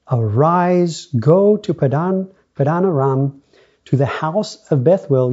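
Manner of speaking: emphatic, measured reading aloud; scripture reading. Acted. Preacher reads Genesis to the congregation, emphatic scripture reading. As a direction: read the verses out with lifted emphasis.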